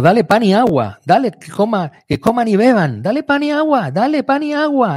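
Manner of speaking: loud, high demand for bread and water; prophet's loud command. Retold or imitated. Preacher voicing the prophet's demand, loud and high. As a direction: cry out the prophet's command, pitch up and push. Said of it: "el profeta le dice".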